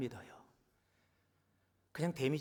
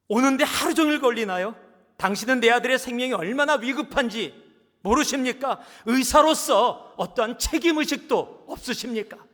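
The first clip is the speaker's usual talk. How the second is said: loud, high furious yelling; angry shout; 9 semitones higher, 16 dB louder than usual. Acted. Father shouting at the late surgeon, loud and high. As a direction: yell at him like a frantic father. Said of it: "화가 나서 소리를 지릅니다".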